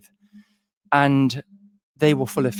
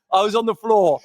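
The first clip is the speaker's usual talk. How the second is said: laughing; 9 semitones higher, 6 dB louder than usual. Real, not acted. Repeats line laughing.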